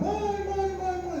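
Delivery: put-on a child knocking and calling for his mother; crying for mom. Preacher retelling the boy at the door: mock crying calls. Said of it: "começou a bater na porta chorando".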